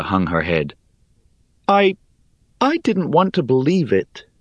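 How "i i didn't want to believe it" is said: high, pleading voice; pleading Rhea. Acted. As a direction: beg for help, reaching up.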